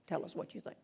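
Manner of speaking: "Tell us what you think." whispered, almost no voice. Retold or imitated. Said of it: "You go up and you say".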